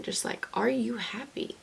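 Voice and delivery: hushed, tender whisper of the question; soft whisper. Real, not acted. Speaking to her future self in a gentle whisper. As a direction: breathe the question almost silently.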